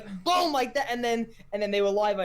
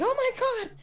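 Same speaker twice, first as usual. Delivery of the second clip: mock shock. Imitating streamer's shocked reaction.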